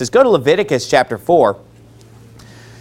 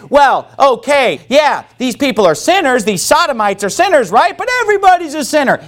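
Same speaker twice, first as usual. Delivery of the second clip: mocking voice; 6 semitones higher than usual. Mocking a warped view.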